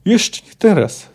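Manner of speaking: forceful, drawn-out snarl; angry growl. A narrator's reading. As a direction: growl it out word by word. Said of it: "zawarczał".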